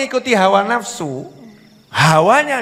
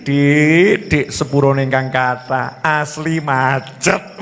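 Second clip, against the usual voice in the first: apologetic husband; 5 semitones lower, slower than usual. Acted. Acted husband apologises to wife.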